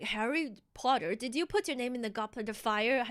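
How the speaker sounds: lightly voiced calm headmaster; calm Dumbledore. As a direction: ask it gently like the book's Dumbledore. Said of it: "Dumbledore asked calmly".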